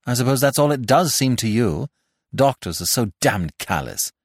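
a touch of affronted protest; indignant. Acted. Jack stung by the doctor's calm, mildly indignant. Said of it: "Jack felt indignant".

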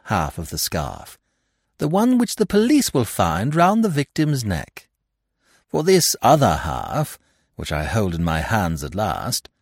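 lightly voiced gentleman thief, pleased with himself; a touch of playful lecturing; Lupin, explaining smugly. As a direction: show off the clever trick.

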